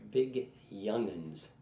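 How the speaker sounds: put-on slow drawled Southern "big young'uns". Quoting the Nashville woman's phrase, slow and drawled. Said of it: "And I just love that".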